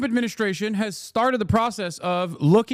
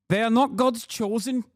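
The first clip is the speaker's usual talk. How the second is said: put-on slightly raised, clumsy South African accent; South African accent attempt; 5 semitones higher than usual. Streamer reading an Afrikaner's tweet, attempted South African accent. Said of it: "do my best South African accent".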